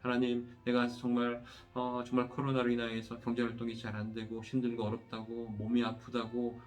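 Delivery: steady, evenly pitched praying voice with little melody; earnest pastoral prayer. Real, not acted. Pastor leading the congregation in prayer after the sermon, earnest prayer. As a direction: pray aloud in long, rolling petitions that settle at each close.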